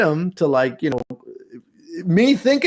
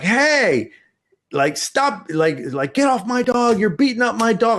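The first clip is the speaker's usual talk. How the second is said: mock kid shouting; 8 semitones higher than usual. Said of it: "I'm like".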